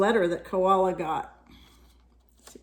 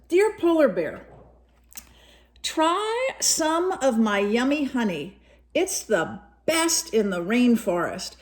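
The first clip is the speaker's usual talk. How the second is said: a hint of a higher cheerful sun bear voice; lightly voiced sun bear; 5 semitones higher than usual. Reading sun bear's letter to a child, lightly voiced sun bear. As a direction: read it as a generous friend sharing honey.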